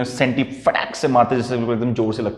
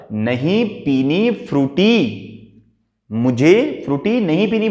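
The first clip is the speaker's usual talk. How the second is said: slow, stretched-out pouting whine; sulky child's refusal; slower than usual. Shown as a demonstration. Girl sulking at her mother over the Frooti, pouty. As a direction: refuse like a cross little girl. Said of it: "जो भी उसने word बोले उस word को याद रखना".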